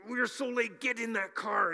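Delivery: put-on high, loud hurry-up shout at the kids; frantic parent yelling. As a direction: yell at the kids because you're running late. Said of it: "you're like".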